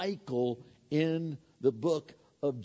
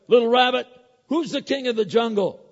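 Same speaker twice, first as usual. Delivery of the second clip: Don't stress it: higher and louder, the lion bellowing his question; roaring lion; 7 semitones higher, 7 dB louder, faster than usual. Acted. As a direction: boom it out like a proud lion. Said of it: "let out a ra-, loud roar".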